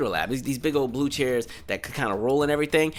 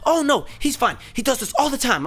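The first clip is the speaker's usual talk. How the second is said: higher, breezy brush-off, lightly voiced; dismissive mom; 9 semitones higher than usual. Mom telling the teacher her son is fine, higher breezy brush-off. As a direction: wave off the worry like it's nothing. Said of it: "the mom is like".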